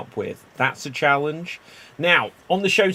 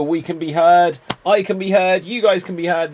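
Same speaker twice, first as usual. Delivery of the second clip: hyped announcer; 3 semitones higher, 5 dB louder than usual. Acted. Host hyped show intro.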